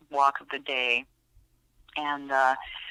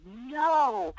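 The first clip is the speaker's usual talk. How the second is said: sudden sharp "No!"; sharp yell; 7 semitones higher than usual. Retold or imitated. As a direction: bark out a firm no. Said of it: "one of the few times I've ever yelled at her".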